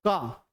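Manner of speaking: क said simply, without ringing; plain short क; simple, unstretched sound. Shown as a demonstration. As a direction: let क fall away without pulling it. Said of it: "simple में बोल दिए".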